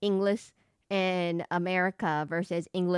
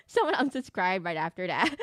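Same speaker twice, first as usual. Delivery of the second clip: laughing; 2 semitones lower than usual. Real, not acted. Laughing at own lesson.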